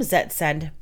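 ordinary delivery, nothing marked

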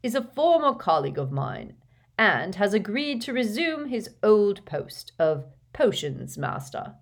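stately public welcome with swelling opening phrases; headmaster's address. Acted. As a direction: address a whole hall, measured and ceremonious. Voices headmaster's announcements.

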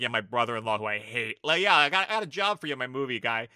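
loud, hammed-up job pitch; mock pushy director. Imagined director offering brother-in-law a job, mock hearty. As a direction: sell it big to a disliked relative.

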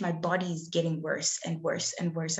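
ordinary delivery

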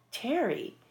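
slightly high, puzzled recognition; mild disbelief. Retold or imitated. Star recognizing her under makeup.

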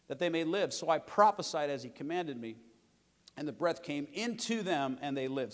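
slow, measured Bible reading; solemn preacher reading scripture aloud. Acted. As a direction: read the verse with weight.

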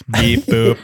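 robot beeps. Retold or imitated. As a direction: mouth beep boop sounds. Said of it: "he cheats with his sound effects".

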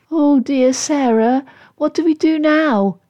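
high, plaintive worry; mildly sad. Acted. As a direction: turn helplessly to a friend. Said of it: "Katy turned sadly to Sarah".

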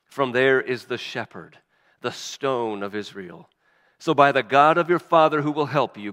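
solemn read-aloud of Genesis; scripture reading. Acted. Pastor reading Jacob's blessings to the congregation, solemn reading. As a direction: read the blessings with weight, phrase by phrase.

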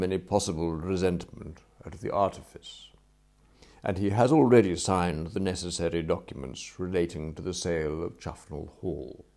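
lightly voiced deferential butler, precise and unhurried; formal report, evenly delivered; measured formal valet. Valet explains a settled deal to his employer, measured and formal.

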